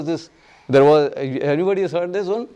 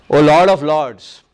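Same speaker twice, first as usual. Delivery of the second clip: pleading prayer; 8 dB louder, slower than usual. Retold or imitated. Voicing Uttara's prayer.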